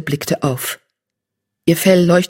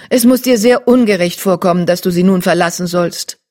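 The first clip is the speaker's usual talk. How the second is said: wise she-cat voice; 4 dB louder than usual. Acted. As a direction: praise her with respect. Blue-grey she-cat continues.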